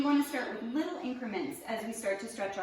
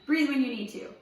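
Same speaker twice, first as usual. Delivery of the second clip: firm and louder, stressing breathe; louder emphatic repeat; 2 semitones higher, 5 dB louder than usual. Shown as a demonstration. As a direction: repeat it louder so they remember. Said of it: "This is not meant to be held for a minute".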